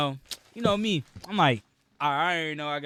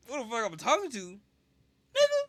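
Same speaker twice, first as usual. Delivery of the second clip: high-pitched, indignant shout, escalating to a squeal; yelled comeback; 11 semitones higher, 6 dB louder than usual. Retold or imitated. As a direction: yell it back, voice shooting way up. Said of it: "I yelled at that bitch".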